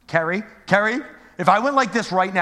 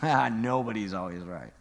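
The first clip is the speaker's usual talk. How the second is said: laughing repeat; 9 semitones lower, 7 dB quieter than usual. Shown as a demonstration. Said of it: "repeated for emphasis".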